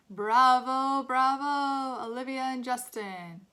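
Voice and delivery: big celebratory cry, easing at the end; loud cheer. A narrator's reading. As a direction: call it out like an admiring teacher. Teacher cheering and clapping the actors.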